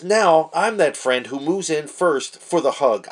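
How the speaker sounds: slow, read-aloud delivery; quoting the written lesson slowly; reading the text. Shown as a demonstration. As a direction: read it out deliberately from the page. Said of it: "And it says".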